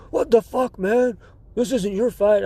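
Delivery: lightly voiced indignant old man; indignant old guy. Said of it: "he was like".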